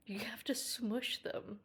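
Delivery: soft slow whisper; whispered tip. Real, not acted. Pet sitter sharing cat advice, whispering. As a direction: let the secret out under your breath.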